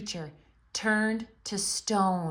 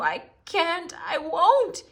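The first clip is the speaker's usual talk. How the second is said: rising, louder defiant refusal; 10 semitones higher, 6 dB louder, slower than usual. A narrator's reading. Faun refusing to betray Lucy, loud defiance. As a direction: dig in, firmly refusing. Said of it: "blurt out the truth".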